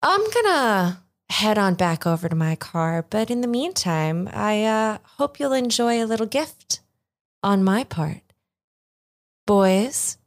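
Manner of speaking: lightly voiced cold lady leaving the thieves; dismissive villain. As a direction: hand the threat over politely. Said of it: "she just sort of looks at all you guys and goes".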